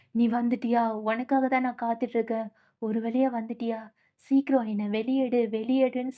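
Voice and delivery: lightly eerie spirit calling out from a jar; a hint of a trapped soul pleading; understated spooky jar voice. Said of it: "ஜாடிக்குள்ள இருந்து ஆன்மா பேசினா எப்படி இருக்கும்".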